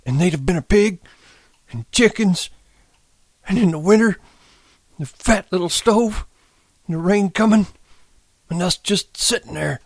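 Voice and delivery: put-on high, wistful old man's chant; tearful sing-song. A narrator's reading. Candy repeats the old words about their place, sing-song. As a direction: recite the old dream phrase by phrase, very high. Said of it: "went on in a sing-song".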